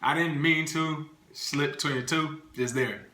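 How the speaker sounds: words around ice; speaking with a cold mouthful. Real, not acted. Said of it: "got ice in my mouth".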